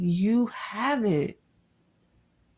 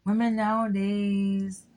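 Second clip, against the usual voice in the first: mimicked complaining man; 5 semitones higher than usual. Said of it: "'Cause he goes like".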